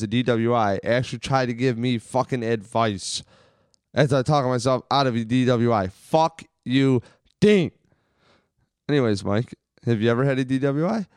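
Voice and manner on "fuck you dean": loud, rising shout at Dean; mock angry yell. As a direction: snap it at him, much higher and louder. Angry retort at friend Dean.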